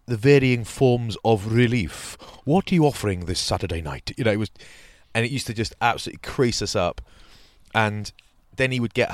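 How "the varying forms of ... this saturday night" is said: mock smooth caller. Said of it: "he'd always be like".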